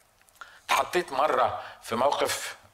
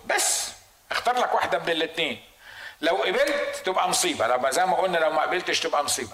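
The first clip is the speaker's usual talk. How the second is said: the devil taunting. Retold or imitated. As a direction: needle them with either-or questions. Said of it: "بيقول لك".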